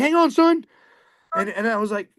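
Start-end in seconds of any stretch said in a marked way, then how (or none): 0.0-0.6 high, loud call to hang on; shouted order. Retold or imitated. Captain shouting to his buddy mid-fight, loud. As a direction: yell it across the deck.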